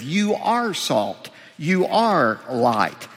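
slow, with "are" weighted and falling; stress on are. Shown as a demonstration. Preacher stressing the affirmative "are" to his hearers, slow and weighted. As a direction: lean slowly on "are" in both phrases. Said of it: "Jesus said in the affirmative".

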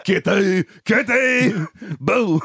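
put-on lightly babyish, high little call; little kid voice. Podcaster voicing Boo from the film, little kid voice.

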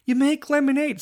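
drawn-out put-on voice, slow; a goofy sing-song aside; odd put-on voice. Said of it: "I don't know why that came out".

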